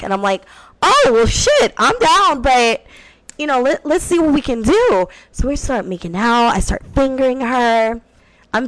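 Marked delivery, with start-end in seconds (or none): 0.8-5.1 sudden high eager burst, then settling; eager yes. Retold or imitated. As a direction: jump at the offer, voice shooting up. Excited reply to threesome offer.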